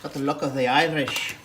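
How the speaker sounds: a hint of Irish sliding into British; Irish-British accent. Dad's second go for the camera, muddled Irish-British accent. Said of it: "Irish British".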